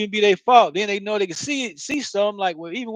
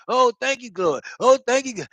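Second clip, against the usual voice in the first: mock begging thanks; 3 semitones higher than usual. Mocking someone jumping up and down thanking God. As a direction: overdo the gratitude, pleading. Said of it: "jumping up and down".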